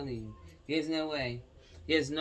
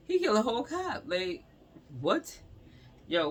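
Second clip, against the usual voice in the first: much higher and louder, stunned; shocked outrage; 7 semitones higher, 4 dB louder than usual. Real, not acted. Reacting to the news story for viewers, shocked and loud. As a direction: blurt it out in shock.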